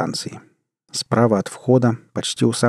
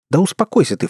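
exclaiming; 7 semitones higher than usual. A narrator's reading. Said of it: "воскликнула Джанет".

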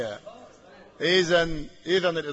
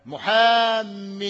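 محام held very long, higher and louder; drawn-out example word; 4 semitones higher, 5 dB louder, much slower than usual. Shown as a demonstration. Teacher stretching an example word for the class. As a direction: stretch محام to show the tanween. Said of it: "حرف، زي".

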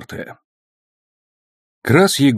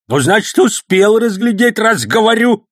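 put-on much higher, louder angry old man, slow at first; 14 semitones higher, 5 dB louder than usual. A narrator's reading. Old man angrily insisting to the policeman. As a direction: snap back, losing patience. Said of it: "разозлился Сан Саныч".

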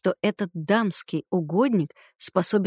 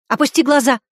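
loud, higher barked order; shouted command; 5 semitones higher, 6 dB louder, faster than usual. A narrator's reading. Woman shouting at Smirnov to look away, loud. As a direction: shout it at him. Same words shouted earlier.

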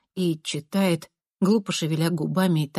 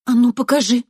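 loud, raised order; stern demand; 5 semitones higher, 7 dB louder than usual. A narrator's reading. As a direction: order him to show it. Narrator demanding the note. (грозно требует)

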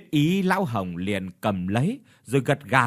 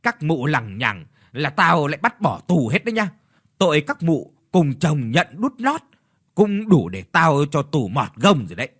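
louder, gruff mandarin threatening jail; annoyed threat; 2 semitones higher, 4 dB louder than usual. Acted. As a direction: threaten the nagging widows harshly. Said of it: "khó chịu ra mặt".

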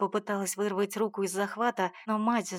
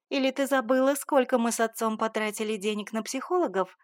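angry mother's tirade; indignant mother; 2 semitones higher, 4 dB louder than usual. Acted. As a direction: keep hammering her with reproach. Mother continues scolding.

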